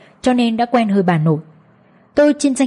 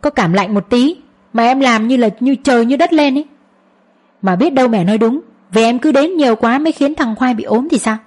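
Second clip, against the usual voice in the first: annoyed; 3 semitones higher than usual. Acted. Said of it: "Việt khó chịu khi bị tôi nói thế".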